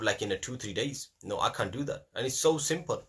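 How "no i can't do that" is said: mock giving up. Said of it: "you give up".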